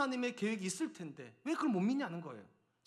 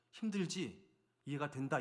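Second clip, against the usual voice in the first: imagined gentle comfort, softer voice; sympathetic reassurance; 5 semitones lower, 4 dB quieter than usual. Pretend. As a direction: softly pretend to console the tired people. Imagined kind reply from Moses. (부드럽게 달래는 말투 흉내)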